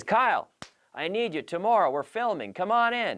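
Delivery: lightly voiced boss giving orders; a hint of the boss calling him in; quoting the boss. Imitating the boss calling Kyle in to film. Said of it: "He says".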